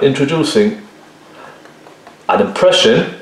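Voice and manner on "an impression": "impression" set apart after a pause, pitched high; emphasis on impression. Real, not acted. Painting teacher stressing the loose effect wanted, emphasis on "impression". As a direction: lift "impression" high to make it stand out. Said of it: "I emphasize the word impression".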